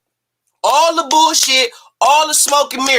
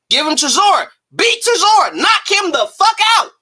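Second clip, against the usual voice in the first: fired-up shout; 7 semitones higher than usual. Real, not acted. Podcaster hyping Dillian's wins to the audience, shouting. Building the rant.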